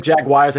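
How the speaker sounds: quoting Jaguars as "JAG-wires"; imitated JAG-wires pronunciation. Co-host quoting the host's slip, Jaguars as "JAG-wires". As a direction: echo Jaguars with an ending like "wires". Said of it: "you just said Jaguars".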